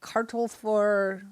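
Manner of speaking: slow, sounded-out attempt at Danish; mock Danish accent. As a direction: pretend to read Danish, badly. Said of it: "just a really good Danish accent".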